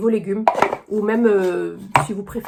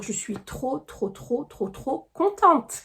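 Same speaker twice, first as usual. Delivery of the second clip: excited; 2 semitones higher, much slower than usual. Real, not acted. Gushing over the last item.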